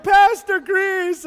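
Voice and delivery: loud, high, drawn-out call. Retold or imitated. Children shout to the pastor arriving, loud drawn-out call. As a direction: call his name across the yard. Kids calling out his name.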